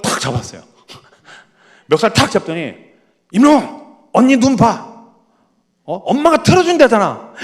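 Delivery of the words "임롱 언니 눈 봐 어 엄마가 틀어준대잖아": higher and louder scolding; older sister scolding her little sister; stern big sister. Retold or imitated. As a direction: grab her attention, firm and bossy. Older sister grabs sister's collar.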